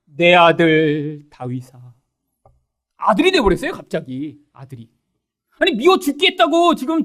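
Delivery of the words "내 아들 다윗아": Saul calling out. Acted. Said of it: "사울이 어떻게 반응하나요?".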